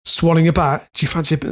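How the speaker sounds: lightly put-on Cockney accent; accidental Cockney. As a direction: slip into a half-hearted Cockney. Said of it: "I don't know why I went Cockney".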